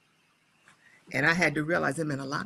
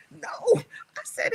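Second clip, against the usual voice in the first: whisper; much slower than usual. Real, not acted. Laughing aside to host.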